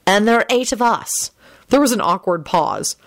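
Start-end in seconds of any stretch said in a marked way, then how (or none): 0.1-1.3 mildly puzzled, pitched up; raised, questioning bafflement. A narrator's reading. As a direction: add the snag with gentle confusion. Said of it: "in a puzzled voice".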